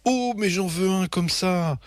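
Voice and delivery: high, thrilled wanting; swooning excitement. A narrator's reading. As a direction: gush like she's just fallen in love. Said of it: "maman tombe en émoi".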